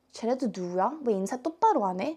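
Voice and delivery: play-acted, very slow, drawn-out, pointed griping tone. Retelling what a K-pop group member said to a makeup artist: imitating her exact tone. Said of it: "Literally in that tone".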